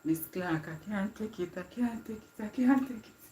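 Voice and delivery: mock overwhelmed, rising as it repeats; imitated distressed teammate. Teammate telling Miss Clark she can't take it, mock distressed. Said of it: "when she see those situations".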